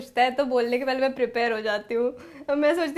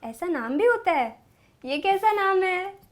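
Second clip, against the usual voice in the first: mock astonishment; 5 semitones higher than usual. Shown as a demonstration. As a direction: act amazed at a strange name. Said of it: "So I'll give you some demo".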